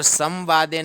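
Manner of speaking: quick "संवादे" as sam-vaade with a plain m; wrong reading. Shown as a demonstration. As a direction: say "संवादे" fast with a short first syllable. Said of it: "नहीं पढ़ेंगे".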